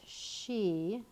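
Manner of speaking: each word spoken apart as it is written; slow dictation. Shown as a demonstration. Teacher writing on the board, slow dictation. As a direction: spell it out word by word as you write. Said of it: "So I'm gonna make a capital S".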